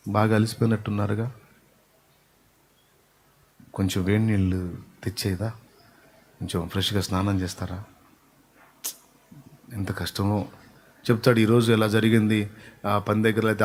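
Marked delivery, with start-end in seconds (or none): 0.1-10.5 softer, tender concern; caring wife. Retold or imitated. Wife caring for her husband home from work, tender and soft. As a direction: soothe a tired husband gently. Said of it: "కష్టపడి ఇంటికి వచ్చాడనుకో".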